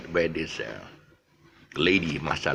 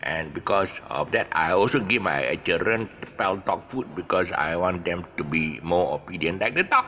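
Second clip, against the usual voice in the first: put-on lightly done Malaysian English accent; a hint of Malaysian Manglish, unhurried. Dog breeder talking in a TV ad, mild Malaysian English accent. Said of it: "Malaysian accent ... his Malaysian Manglish".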